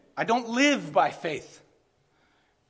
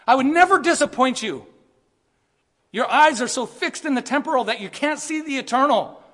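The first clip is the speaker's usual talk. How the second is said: voice of Jesus; 4 semitones higher, 3 dB louder than usual. Retold or imitated. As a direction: start hushed and build to an impassioned cry. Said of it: "what Jesus is saying is".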